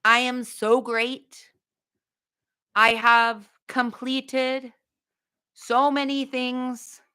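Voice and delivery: slow, drawn-out mock Trump boast; lightly voiced Trump, stretching each word; a hint of Trump bragging slowly; Trump impression. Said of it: "Can I do a Trump accent?".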